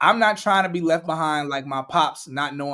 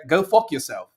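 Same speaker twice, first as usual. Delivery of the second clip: lightly imitating Elon Musk's accent; a hint of Elon Musk's accent on a curt retort. Co-host retells the billionaire telling off advertisers, lightly in Elon Musk's accent. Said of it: "in, in his, in his accent".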